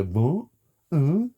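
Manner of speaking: a lightly voiced baffled teen going what, uh; imitating a teenager who doesn't get it; mock teenager grunts. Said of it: "making noises like a fucking teenager".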